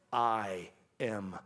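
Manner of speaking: low, slow, weighty proclamation; commanding declaration. Retold or imitated. Jesus to the enemy, low and commanding. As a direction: declare it with quiet power. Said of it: "He says".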